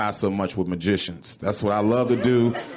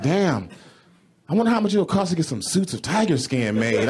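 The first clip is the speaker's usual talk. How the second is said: stoned musing; 6 semitones higher than usual. Retold or imitated. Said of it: "I'm like".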